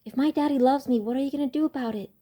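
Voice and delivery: breezy American accent, fast at the end. Real, not acted. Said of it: "in an American accent".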